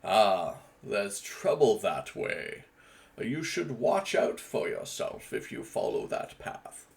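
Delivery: slow, wary warning of trouble ahead; slow warning about the path; another character take. Shown as a demonstration. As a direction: draw it out like a watchful guide.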